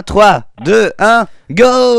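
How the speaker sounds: loud excited countdown; counting down to go. Pretend. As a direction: call the countdown like a race starter. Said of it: "j'ai le chrono en main".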